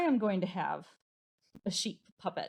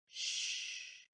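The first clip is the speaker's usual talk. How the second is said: soft unvoiced shh; whispered shush; 11 dB quieter than usual. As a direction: hush like a sleeping child is near. Story hush.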